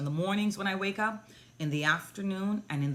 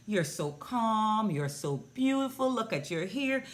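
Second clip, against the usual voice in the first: put-on higher, lilting talk to a toddler; doting praise; 4 semitones higher than usual. Recounting praise given to the pouting girl, doting coo. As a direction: coo compliments at a little one.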